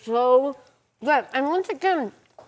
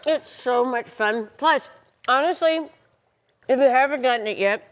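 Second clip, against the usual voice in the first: mouth full; 4 semitones higher than usual. Real, not acted. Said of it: "talking with my mouth full".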